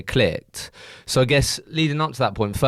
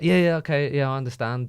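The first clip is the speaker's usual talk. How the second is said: eager yes man; 5 semitones higher than usual. Retold or imitated. Acting out a compliant yes man.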